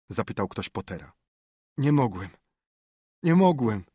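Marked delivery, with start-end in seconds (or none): 1.8-2.3 moaning. Acted. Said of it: "zajęczał Potter". 3.2-3.8 "nie mogłem" higher and louder, a pained wail on "mogłem"; anguished repeated moan. Acted. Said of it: "zajęczał Potter".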